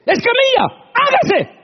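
high, loud, playful command naming a listener; mock divine command. Preacher teasing a listener with a mock divine command. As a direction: call her into being in jest. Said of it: "Dios no dijo así".

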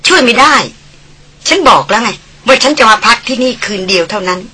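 lightly voiced haughty young lady scolding; mock him with a sneer, slowing the jibes; Darin teasing. Darin refuses. (ดารินพูดเหน็บแนมแบบคุณหญิงถือตัว)

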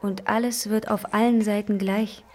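slow, hushed reading of verse; poem recitation. Acted. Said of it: "Das ist Rilke".

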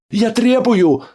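high, loud command; shout, shaking all over; doctor yells at the locked door; trembling shout. A narrator's reading.

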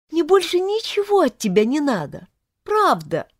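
put-on high, urgent lovelorn girl; tearful, pleading heroine. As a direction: beg and confess in a high, insistent voice. (влюблённая девушка, высокая слёзная мольба)

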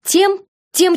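usual speaking voice

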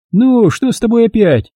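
sharp, high rude demand; rough question. A narrator's reading. Olga rudely demanding what's wrong with the narrator. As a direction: snap at her rudely. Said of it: "довольно грубо спросила она".

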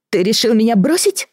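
high ringing, trembling question. Acted. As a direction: ask with voice ringing with hurt. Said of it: "звенящим голосом спросила Даша". (звенящим голосом)

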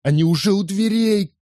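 very high, loud panicked shout. A narrator's reading. Andrea to everyone: very high panicked shout. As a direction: scream the mob is here. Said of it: "крикнул Андреа".

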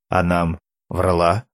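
slow, curious question. A narrator's reading. Fiddler asks Eri if she lied to them, curious. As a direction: ask with real interest. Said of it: "с интересом спросил скрипач".

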